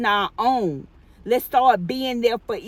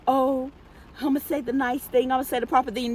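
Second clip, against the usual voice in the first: mock nice talk; 2 semitones higher, 4 dB quieter, faster than usual. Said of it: "this little rhetoric of".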